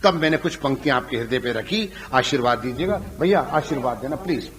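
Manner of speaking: ordinary talk, nothing marked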